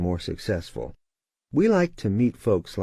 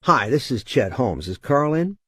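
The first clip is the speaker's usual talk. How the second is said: authoritative voice; 3 semitones higher than usual. Retold or imitated. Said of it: "with the very authoritative voice".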